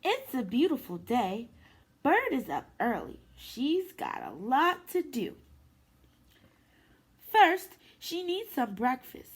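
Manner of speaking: gentle, lively storybook read-aloud; reading to children. Acted. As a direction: read it to little ones at story time. Reads picture book to kids.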